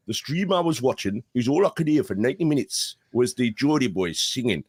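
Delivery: put-on Geordie accent. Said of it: "worst Geordie accent I've ever heard".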